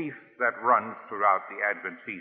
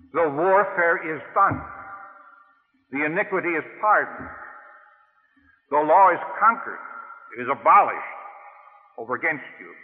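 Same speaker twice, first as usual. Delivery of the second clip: triumphant proclamation; 4 semitones higher, 3 dB louder than usual. Real, not acted. Climactic gospel proclamation.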